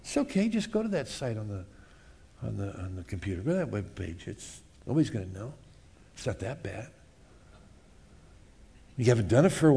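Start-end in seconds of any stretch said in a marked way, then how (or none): 0.0-6.9 soft, low coaxing murmur; hushed temptation. Acted. The flesh murmuring to the listener, soft low coaxing. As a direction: lure them quietly, like a secret.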